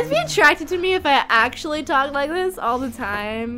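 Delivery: put-on Valley Girl voice. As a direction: ask sweetly in a valley girl voice. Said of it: "that is annoying".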